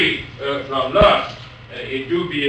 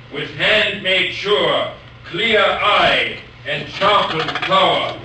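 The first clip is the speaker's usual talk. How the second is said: slow, measured poetry reading; poem recital; 2 semitones higher than usual. Shown as a demonstration. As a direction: recite the sonnet with solemn lift. Lecturer recites Brooke sonnet.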